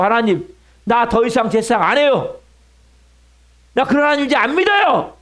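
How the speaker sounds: mock defiant refusal, rising in pitch; acted outburst. Preacher voices a priest quitting on God, acted defiant outburst. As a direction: act out quitting on God in protest. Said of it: "막 따지고 막 그냥 난리치지 않겠냐".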